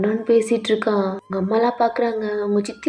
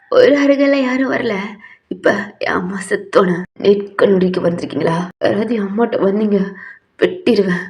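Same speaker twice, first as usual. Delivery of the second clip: put-on drunk threat. Drunk son threatens funeral guests.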